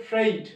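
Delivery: ফ্রেইট as one syllable "freit", gliding vowel; demonstrated pronunciation. Shown as a demonstration. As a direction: model ফ্রেইট with r and a clear "ei". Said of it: "actually উচ্চারণটা হচ্ছে". (ফ্রেইট এক টানে, "ই" স্পষ্ট করে)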